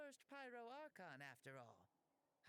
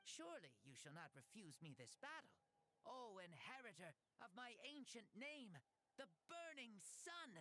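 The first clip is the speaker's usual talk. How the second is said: solemn declaration. Acted. Solemn challenge speech.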